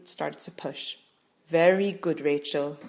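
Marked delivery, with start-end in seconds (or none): 1.5-2.8 steady reassuring praise; calm praise. Acted. Midwife calmly praising Rachel. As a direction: soothe her while working. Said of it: "Yime calmly said".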